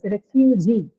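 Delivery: refugee with the stress on the final gee; teacher showing the final stress on refugee; stress on the last syllable. Shown as a demonstration. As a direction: land on the end of refugee. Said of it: "Here the stress is on the suffix itself".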